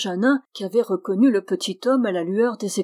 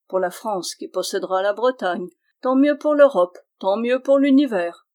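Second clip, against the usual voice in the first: building exultation; 3 semitones higher, 4 dB louder than usual. Acted. Dwarf rejoicing he survived the fire, swelling to a shout. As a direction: build each tant mieux bigger. Dwarf's mounting list of blessings.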